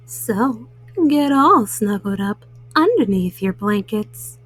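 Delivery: gentle storyteller tucking little ones in; bedtime host voice. Acted. Host reads to children at bedtime.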